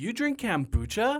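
very high, disapproving, judgmental, put-down tone. Retelling the first visit to Adam's garage, the speaker quotes Adam: imitating Adam's judgmental tone. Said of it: "In a very judgmental tone".

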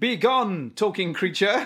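grand, stagey, theatrical and dramatic delivery. Breaking into the other speaker's remark, different, theatrical voice. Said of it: "do you want to repeat everything I say in a different voice?".

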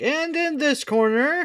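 very high-pitched boxing ring announcer call. Suggesting a boxing pre-match bit to the others, boxing ring announcer. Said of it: "like a boxing pre-match".

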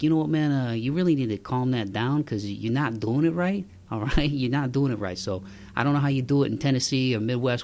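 put-on plain, conversational local New York accent. Giving snow tips to listeners, imitating New Yorkers in a New York accent. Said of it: "People from New York are probably like".

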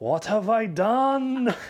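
put-on Austrian accent, very high and very slow. Imagining the robot's final scene with a regretful line: Arnie accent. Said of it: "I'll try the accent".

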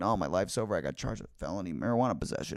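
crying, tearful voice full of hopeless despair. Retelling own words to a man in the next jail cell: imitating own past crying. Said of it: "sitting there, like, crying".

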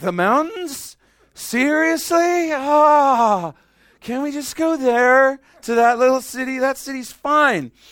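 acted-out, very high, very loud griping with long ah. Imitating Lot complaining to the angels about being saved: imitating Lot complaining. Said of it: "He's like".

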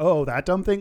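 ordinary talk, nothing marked

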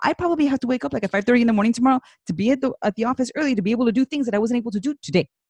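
breakneck, very fast, rattled-off run-on. In conversation, rushing through one long sentence to a listener, very fast. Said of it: "You said that all very fast".

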